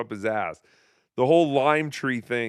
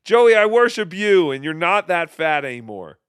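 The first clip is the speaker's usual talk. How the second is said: high, loud gushing declaration; mock devotion; 3 semitones higher, 6 dB louder than usual. Host answering the rant with loud mock devotion. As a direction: gush it like a fawning fan.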